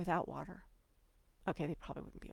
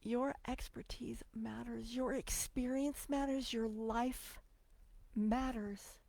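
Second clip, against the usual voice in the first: softer, slow, near tears; emotional whisper; 3 semitones higher, 4 dB quieter, slower than usual. Real, not acted. Encouraging authors, a tearful near-whisper. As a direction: hush it, moved by her own words. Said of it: "I'm getting emotional".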